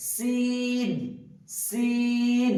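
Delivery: সিন with a clear whistling hiss on the s; whistling s of sin. Shown as a demonstration. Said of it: "মুখের যে একটা সিটি, সেটা বেরোচ্ছে কিনা সেটা দেখুন". (সিন-এ শিসের মতো স উচ্চারণ)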